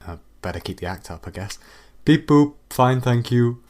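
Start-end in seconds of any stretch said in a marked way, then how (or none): 2.0-3.6 chirpy put-on robot beep; fake robot noises. AI faking robot beeps to fool its creators. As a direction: pretend to be a simple machine. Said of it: "rehearsed computer noises you're making".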